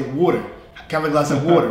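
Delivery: a light New York accent on 'water'; natural New York accent. Shown as a demonstration. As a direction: ask for 'water' the way a Bronx local would. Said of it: "really my natural accent".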